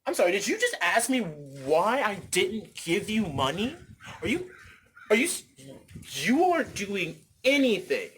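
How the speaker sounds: acted disbelief building into stretched, emphatic outrage; indignant rant. Passerby challenging someone asking for money, indignant rant. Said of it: "that's my rant".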